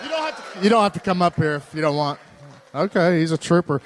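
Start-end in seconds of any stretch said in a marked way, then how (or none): 0.0-2.2 calling out. Real, not acted. Calling out to hesitant kid.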